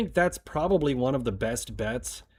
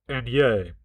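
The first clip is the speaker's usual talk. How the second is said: yay pinched higher up the nose. Shown as a demonstration. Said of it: "let me pinch it higher".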